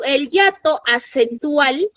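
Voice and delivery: el hiato acentual and es solo cuando said slowly, each word weighted; slow, stressed rule. Shown as a demonstration.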